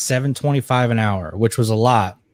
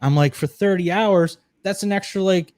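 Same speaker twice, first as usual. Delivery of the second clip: angry complaint; 6 semitones higher than usual. Retold or imitated. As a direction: let the outrage build as you plead your case. Complaining to GM about his pay.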